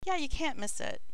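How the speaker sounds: high, bright helpful villager voice; chirpy local giving directions; cheerful townsperson. Acted.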